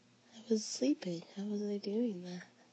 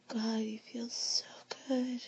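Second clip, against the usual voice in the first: whispering; 2 semitones higher than usual. Acted. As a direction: whisper it close to the ear.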